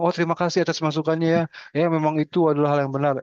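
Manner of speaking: quick, lightly polite; polite fake thanks. Head of the health center, to our faces, fast polite thanks. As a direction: rattle off a courteous thank-you. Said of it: "depan kita mungkin dia bilang".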